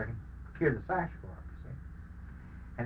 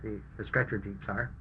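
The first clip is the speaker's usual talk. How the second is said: raised, commanding threat; loud; 4 semitones higher, 7 dB louder than usual. Retold or imitated. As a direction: bark the order, loudly. Wounded soldier shouting threats.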